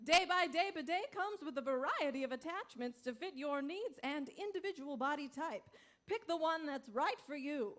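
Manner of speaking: upbeat infomercial pitch; ad read. Acted. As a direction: sell the product with a grin.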